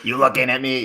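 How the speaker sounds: high Boston tough-guy voice; Boston accent. Acted. Guest mimicking Boston coach, high Boston accent. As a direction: imitate a challenging Boston local. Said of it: "in Boston, that's how they say it".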